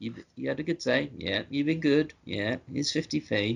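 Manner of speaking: put-on mumsy, motherly, doting tone. Quoting a favourite line the way it was said: imitating a motherly tone to a child. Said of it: "like a real, like, motherly, like how we, how you would say it to a child".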